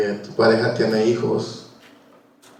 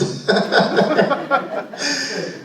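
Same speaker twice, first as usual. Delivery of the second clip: high laugh; 14 semitones higher than usual. Real, not acted. Laughs during the sermon.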